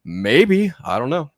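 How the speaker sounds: musing high mock exec voice; mock studio exec. Podcast host mocking HBO Max execs, musing high. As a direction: play a greedy exec weighing a price.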